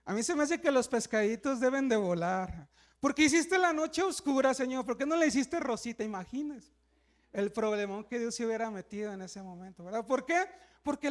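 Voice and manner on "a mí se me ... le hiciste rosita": mock woman complaining. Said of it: "la mujer viendo así como que".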